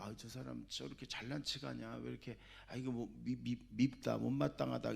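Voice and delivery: soft imitation of a jealous churchgoer's inner complaint; grumbling thoughts. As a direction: mimic someone sulking under their breath. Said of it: "어떤 분은".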